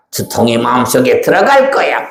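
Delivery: sly demon threat. Acted. Demon threatens to enter heart.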